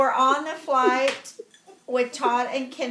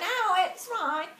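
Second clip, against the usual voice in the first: higher put-on English accent; mimicked English accent; 5 semitones higher than usual. Answering Todd's worry on the flight, put-on English accent. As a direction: brush it off in a fake English accent. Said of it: "we're talking like this the whole time".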